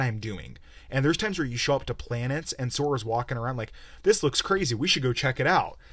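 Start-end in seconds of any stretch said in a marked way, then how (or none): 4.0-5.8 a hint of a naive cartoon hero; mock eager Sora. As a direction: parody Sora's eager tourist enthusiasm. Voicing Sora exploring planets.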